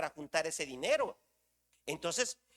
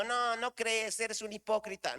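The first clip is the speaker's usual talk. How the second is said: mildly raised mock scolding; a touch of high-pitched telling-off; acted reproach; 4 semitones higher than usual. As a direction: imitate an accusing God, lightly. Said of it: "No es que Dios me esté reclamando".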